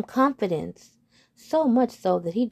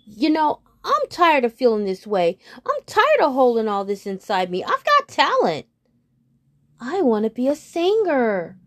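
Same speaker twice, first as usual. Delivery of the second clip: louder, rising frog voice bursting with pent-up want; frog's outburst; 4 semitones higher, 5 dB louder than usual. Acted. Frog talking to himself, fed up and louder. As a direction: let it all spill out, louder. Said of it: "And he says to himself".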